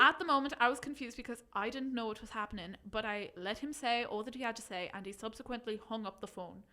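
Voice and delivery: put-on light Irish accent reading. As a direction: keep the Irish lilt going. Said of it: "do it in Irish".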